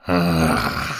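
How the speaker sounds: choked, strained growl; strangled growl. Acted. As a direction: growl through a squeezed throat. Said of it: "зарычал демон сдавленным голосом".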